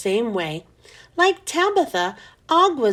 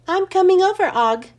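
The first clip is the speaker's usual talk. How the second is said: announcing; 6 semitones higher, 4 dB louder than usual. A narrator's reading. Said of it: "I announced".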